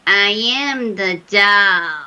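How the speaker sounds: put-on slow, eerie blend of little kid and old grandma; wicked doll voice. Retelling a ghost hunt, imitating the doll's slow wicked voice. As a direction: drag it out like a wicked possessed doll. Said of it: "I'll try to demonstrate".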